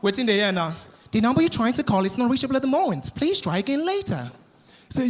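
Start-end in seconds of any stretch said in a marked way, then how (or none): 1.1-4.3 phone operator recording. Retold or imitated. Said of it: "they call Choma number".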